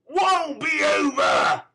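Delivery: loud, high, slow savage shout; Sikes's savage shout. Acted. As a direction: snarl it back at her. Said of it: "with a savage voice".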